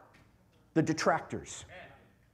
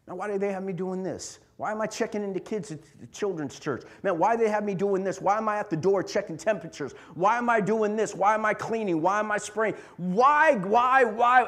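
whiny complainer; 2 semitones lower than usual. Retold or imitated. Complaining churchgoer voiced.

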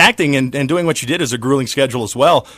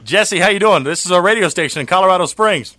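lightly put-on old-time announcer; 1920s sportscaster voice; 3 semitones higher than usual. Host greeting the governor in a hint of vintage sportscaster. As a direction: greet him like a mild radio man of the twenties. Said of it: "Why did I sound like a nineteen twenties, uh, sportscaster".

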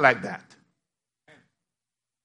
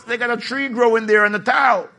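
comic shout; 4 semitones higher, 5 dB louder than usual. Real, not acted.

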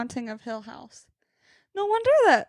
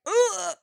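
higher-pitched mock shudder noise; creeped-out ugh; 7 semitones higher than usual. Roommate recalls the creepy shadow, creeped-out ugh. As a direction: imitate a shudder of disgust. Acts her creeped-out reaction.

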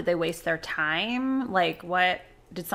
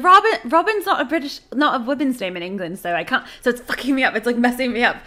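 mimicking the babysitter; 4 semitones higher, 4 dB louder than usual. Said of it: "She's like".

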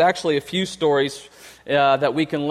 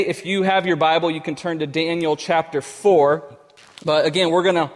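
talking around chewing gum; mouth full. Real, not acted. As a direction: gum in the mouth while speaking. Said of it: "I have gum in my mouth still".

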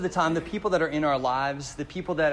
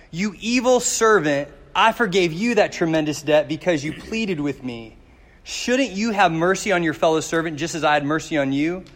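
stern king's rebuke; 6 dB louder than usual. Acted. King rebukes servant in parable.

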